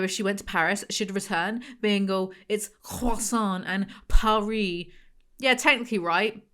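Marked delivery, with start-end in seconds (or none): 2.5-4.9 slow mock Texan accent, mangling the French words. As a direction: drawl it in a Texan accent, smug. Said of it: "with this Texan accent".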